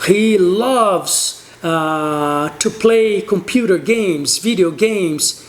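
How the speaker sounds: slow, careful example for students; slow model sentence. Shown as a demonstration. Teacher models third person sentences, slowly. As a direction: spell it out slowly so learners follow. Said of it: "Então, você vai falar".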